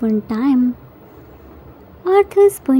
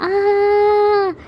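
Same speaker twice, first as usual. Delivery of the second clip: half-hearted scream of joy, pitched up; happy mock scream; 5 semitones higher than usual. A narrator's reading. Jimin overjoyed at the sea view, mock happy scream. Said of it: "screamed his lungs out, out of happiness".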